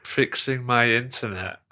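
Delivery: slow, understated deadpan with amusement; reply drily and slowly, barely holding the laugh; dry response. Retold or imitated. Caller answering agent's small talk, slow dry imitation. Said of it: "It was quite a dry response".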